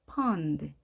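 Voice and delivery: 펀드 with a vowel midway between 오 and 아; English short o in 펀드. Shown as a demonstration. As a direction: say 펀드 as English pond, open rounded vowel. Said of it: "오와 아의 중간 소리".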